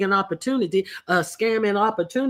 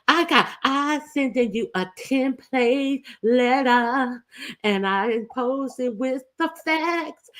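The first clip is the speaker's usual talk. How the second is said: mocking impression; 4 semitones higher than usual. S0 voices accused YouTuber.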